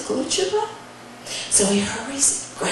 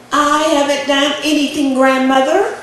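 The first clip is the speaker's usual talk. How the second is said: mildly raised voice, lifting at the end; child's denial; 3 semitones higher, 5 dB louder than usual. Acted. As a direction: play the innocent grandchild. Boy denies to grandmother.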